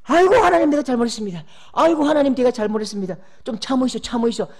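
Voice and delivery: loud, high desperate plea; pleading Moses. Acted. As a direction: beg for mercy in a panic. Moses begging forgiveness.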